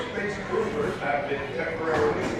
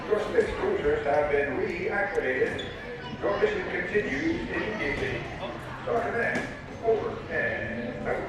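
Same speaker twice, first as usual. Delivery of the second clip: PA announcement over speakers; airport announcement. Real, not acted. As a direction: public address system voice. Ride's recorded PA announcement.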